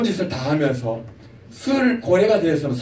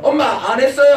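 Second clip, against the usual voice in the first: higher, louder innocent denial; a kid pretending he didn't play games; fibbing child; 5 semitones higher, 4 dB louder than usual. 게임하다 들킨 아이가 엄마에게 시치미 떼며. Child denying gaming to mom.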